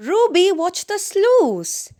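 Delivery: high, loud, slow warning call across the ice; urgent warning. Acted. Friend warning Ruby of the weak ice, an urgent shout. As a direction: call out to stop her in time. Friend warns skater of danger.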